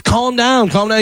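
high, insistent mock yell; imitated coach yelling. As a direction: bark it like a retold coach, without real volume. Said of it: "So the coach yelled at him".

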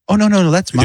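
hammed-up plea to get it back; mock panicked protest. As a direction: fake alarm, reaching for his weed. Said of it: "And I go".

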